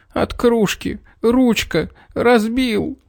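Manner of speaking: put-on boy whimpering to the teacher about the broken mug. A narrator's reading. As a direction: whine it through tears. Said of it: "хныкал Петр".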